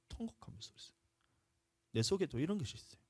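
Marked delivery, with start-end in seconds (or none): 0.1-1.0 a breathless whisper after weeping; whispered words about the weeping. Real, not acted. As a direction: drop to a whisper, as if still choked up. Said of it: "엎어져서 제가 너무 울었어요".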